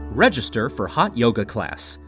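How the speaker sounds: plain reading voice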